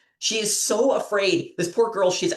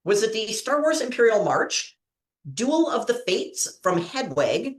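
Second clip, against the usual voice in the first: quiz host; 3 semitones higher than usual. Acted. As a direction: lay out the choices like a game-show host. Quiz host reads question.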